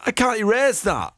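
high, laughing disbelief. Real, not acted. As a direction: talk through the giggles. Laughing after the dance.

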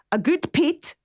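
a light try at a Shetland accent; attempting a Shetland lilt, halfway. Shown as a demonstration. Shetland accent, half-hearted, for the caller. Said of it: "I'm trying to do the accent".

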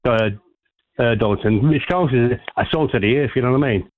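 caller hamming up a bad Cockney accent; a fake Cockney caller, poorly done. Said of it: "your Cockney accent is as bad".

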